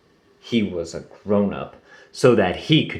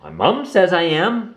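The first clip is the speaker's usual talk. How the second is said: giggling; 7 semitones higher than usual. A narrator's reading. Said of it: "Lumpy giggled".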